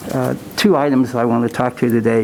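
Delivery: speaking through a face mask, muffled; muffled voice behind a mask. Real, not acted. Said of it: "not used to talking with this mask on".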